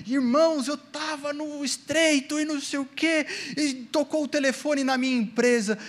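a hint of a pulpit testimony; imitating a preacher. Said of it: "vinha outro pastor, pregava outra coisa".

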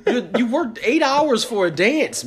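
laughing while mocking it. Real, not acted. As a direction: chuckle through the words.

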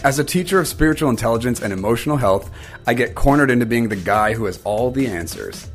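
measured podcast trailer read with weighted pauses; scripted intro read. Acted. Host confessing to listeners he lacks all the answers, scripted intro read. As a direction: deliver it as a scripted opening confession.

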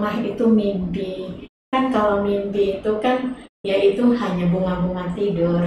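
softly retold comforting of mother; gentle, quiet reassurance, lightly re-enacted. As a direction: speak low and soft, as if calming a worried mother. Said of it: "menguatkan mama saya".

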